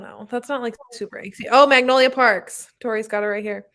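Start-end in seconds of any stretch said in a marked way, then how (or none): none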